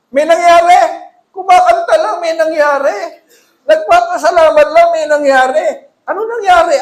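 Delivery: loud, high preacher's build-up; preaching at full force. Acted. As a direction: drive it home to the congregation. (malakas na pangangaral)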